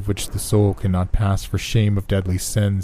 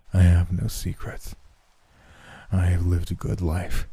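dying man voice. A narrator's reading. Dying man's voice.

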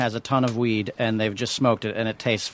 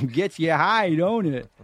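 slow, drawling stoner; Man Stoner; slower than usual. Acted. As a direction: drag it out like a stoned hippie. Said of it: "I'm gonna be Man Stoner".

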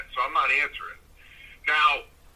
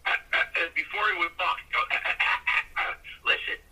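Mickey impression; 3 dB quieter than usual. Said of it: "he talked just like Mickey".

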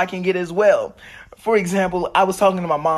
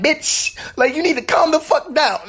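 mock sass; 11 semitones higher than usual. Imagined retort.

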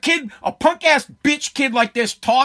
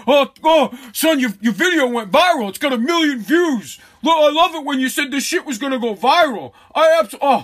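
lightly voiced gushing dad, a bit higher; hint of a delighted dad bragging about his son; mock-proud father, barely put on; proud clueless dad; 3 semitones higher than usual. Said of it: "kid's dad is like".

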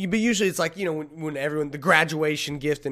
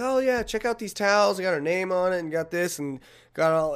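excited mom voice; 4 semitones higher than usual. Retold or imitated. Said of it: "she was like".

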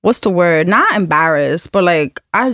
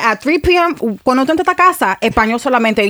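higher, insistent voice of a no-nonsense mother; strict mom laying down the law; 4 semitones higher than usual. Retold or imitated. Daughter imitating her mom's Spanish-only house rule, firm and insistent. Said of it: "she said".

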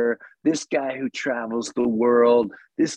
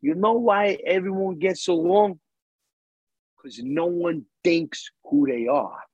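put-on thick Jersey accent; 5 semitones higher than usual. Basil explaining why everyone gets along, thick Jersey accent. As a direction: do a friend's thick Jersey talk. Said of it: "with a thick Jersey accent".

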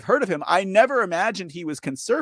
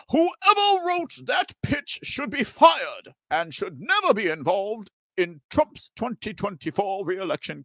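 slow, higher put-on voice of an indignant advisor; lightly voiced pundit, slow and pitched up; imitating Gorka; 5 semitones higher than usual. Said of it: "Gorka says".

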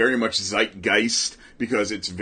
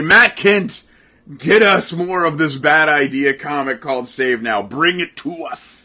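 mock public appeal; 3 semitones higher, 6 dB louder than usual. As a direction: call out to a faraway author, playfully. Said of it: "And I'm gonna say".

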